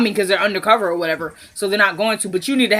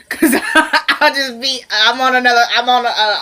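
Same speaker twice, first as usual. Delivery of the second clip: giggly sugar high; 3 semitones higher, 4 dB louder than usual. Real, not acted. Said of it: "I'm on another planet for a minute".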